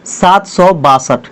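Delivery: drawn out, slow, word by word; slow classroom dictation. Shown as a demonstration. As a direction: spell the number out slowly as you write it. Teacher dictates number while writing.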